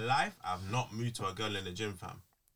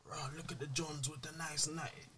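mocking gym flirt voice; 9 semitones higher, 7 dB louder than usual.

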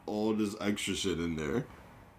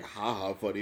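ordinary-pitched ha-ha, as if truly tickled; genuinely amused ha-ha. Shown as a demonstration. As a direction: laugh it off as plainly funny. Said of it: "it's not like I'm like".

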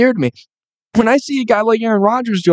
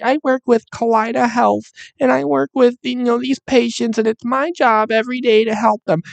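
lightly raised, mocking sing-song; mocking quote voice; 3 semitones higher than usual. Mocking the health workers on screen, lightly higher sing-song. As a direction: mimic the earnest people on screen, a touch higher. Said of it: "They're just like".

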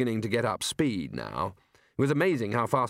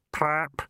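sad little noise; 3 semitones higher than usual. A narrator's reading. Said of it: "sad little noise that might well have been spelled".

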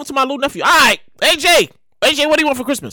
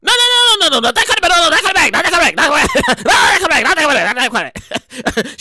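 excited. Real, not acted. Correcting bag meaning.

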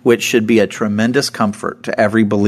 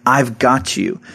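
raised-pitch acted promise, easing at the end; acted confident assurance, pitched up; emphatic reassurance; 3 semitones higher than usual. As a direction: insist that you have it handled. Voices Jesus reassuring the believers.

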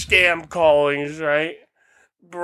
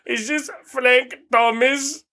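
slow, higher mock South Asian caller; South Asian scammer accent; 6 semitones higher, slower than usual. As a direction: pose as an official in a put-on South Asian accent. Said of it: "motherfucker going".

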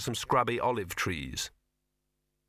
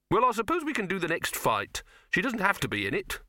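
grumpy; 8 semitones higher than usual. A narrator's reading. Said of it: "said Silverfish grumpily".

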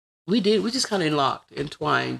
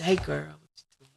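lightly voiced husband on the phone; husband's call; 5 dB quieter than usual. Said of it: "He'll call me on the phone".

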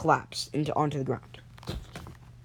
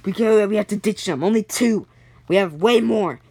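urgent captain's order; 3 semitones higher, 3 dB louder than usual. Acted. Captain orders them left behind.

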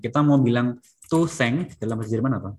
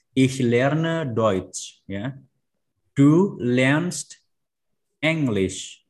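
slow model reading; much slower than usual. Shown as a demonstration. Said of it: "reading example sentences".

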